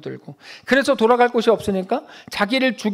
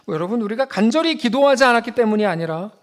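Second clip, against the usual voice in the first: normal talking voice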